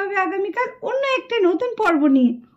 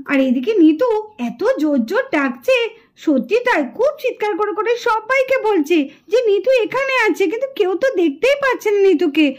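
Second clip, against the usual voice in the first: story narration. A narrator's reading. Narrator telling listeners that Nitu is a spirit, storytelling. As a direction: reveal the twist to listeners.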